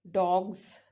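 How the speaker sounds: डॉग्स ending in a buzzing gz; voiced plural ending. Shown as a demonstration. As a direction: keep the voice on through the end of डॉग्स. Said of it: "ये voiced sound है".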